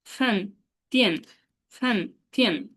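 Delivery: ফ্যান তিয়ান each said with a steep fall; fourth tone drill. Shown as a demonstration. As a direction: chant ফ্যান তিয়ান, falling hard. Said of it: "fourth টোনে উচ্চারণটা এরকম করবো".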